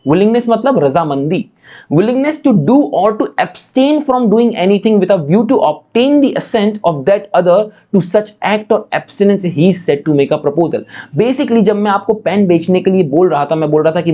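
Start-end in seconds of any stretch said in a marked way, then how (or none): 1.9-10.8 slow, deliberate reading of a legal definition; slow statute reading. Shown as a demonstration. Teacher reads the definition of proposal to students, slowly and deliberately. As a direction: spell out the law word by word.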